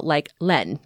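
Len drawn out slowly as the second syllable of Ghislaine; slow teaching of the syllable Len; slow demo syllable. Shown as a demonstration. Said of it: "the second is pronounced".

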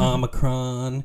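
Omicron said slowly as AH-muh-cron; correct pronunciation. Shown as a demonstration. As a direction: slowly spell out Omicron the right way. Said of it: "that's how it should be pronounced".

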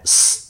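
ス as a forceful, voiceless English S; strong English S. Shown as a demonstration. Teacher shows the English S sound, strongly made. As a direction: push the air hard through ス, no vowel. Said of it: "強い音なので".

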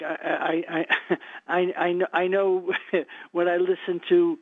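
steadying a shaky voice; getting emotional. Real, not acted. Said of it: "I'm getting emotional now".

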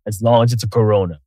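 low, smooth commercial announcer; deep ad voice. Pretend. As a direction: sell it like a beer ad. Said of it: "you can modulate it now in the nice mics".

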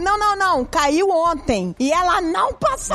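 put-on child's accusation.

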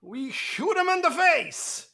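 slow, high Southern drawl answer; deadpan it in a Southern preacher accent. Acted. Doomslayer answering a churchgoer's question, slow Southern accent. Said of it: "I don't know why my accent went".

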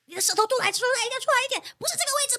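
high, insistent teacher voice; imitating the teacher. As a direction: mimic the coach correcting you. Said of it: "他还会指出".

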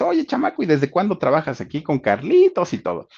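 imitating a high-pitched, curious questioner; high opening hail, easing down through the question. Composer chats up the new young assistant, acted high and curious.

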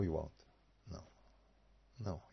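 usual speaking voice

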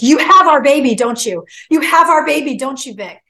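high, loud burst, easing on each "don't you"; retold tearful plea. Friend answering the phone in tears, imitated crying plea. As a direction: press her urgently, as if crying. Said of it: "And she's crying".

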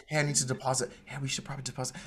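hushed, secretive undertone; imitated money whisper. Host mimics partner mentioning a deposit, furtively hushed. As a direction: let it sink to a near-murmur by the end. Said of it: "Why are you whispering?".

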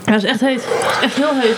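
lips on fire from hot sauce; mouth burning from spicy food. Real, not acted. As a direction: talk through a burning mouth. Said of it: "Mijn lippen branden ook echt heel erg".

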